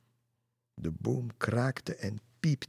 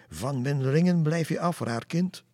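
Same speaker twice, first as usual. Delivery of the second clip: shouted witch's threat, higher and louder; witch shouting; 6 semitones higher, 6 dB louder than usual. Acted. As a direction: bellow it like a furious old witch. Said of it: "Ze riep".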